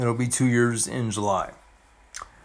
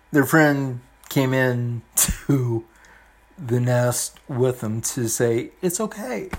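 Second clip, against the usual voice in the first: getting emotional; 2 semitones lower than usual. Real, not acted. Vlogger moved while reading a cartoon about friendship, getting emotional. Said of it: "I apologize for getting emotional".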